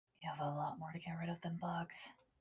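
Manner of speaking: very quiet, grumbling mutter under the breath. A player speaking as their character makes an aside: muttered under breath. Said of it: "I'm gonna mutter under my breath".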